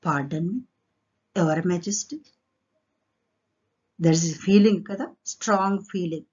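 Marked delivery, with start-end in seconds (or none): 0.0-2.2 mildly deferential, rising at the end; obedient. Acted. Ramakrishna answers his king, mildly obedient. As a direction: ask pardon humbly, in a lower pitch. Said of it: "He said obediently".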